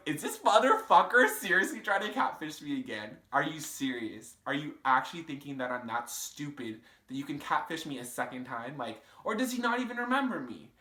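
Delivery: mock furious tirade; retold outrage. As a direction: fire it off in disbelief. Recalling outrage at new message.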